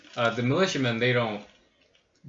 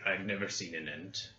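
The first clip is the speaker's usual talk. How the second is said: orc voice; 3 semitones lower, 9 dB quieter than usual. Acted. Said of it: "Orc voice".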